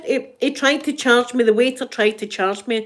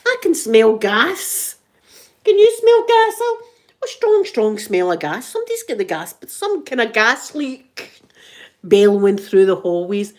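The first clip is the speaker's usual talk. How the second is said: playful loud warning, much higher at the peak; mock gas alarm; 3 semitones higher, 6 dB louder than usual. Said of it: "Like that".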